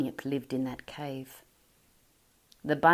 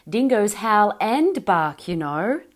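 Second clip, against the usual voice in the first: matter-of-fact; 4 semitones higher, 10 dB louder than usual. Acted. Leonard explains proudly.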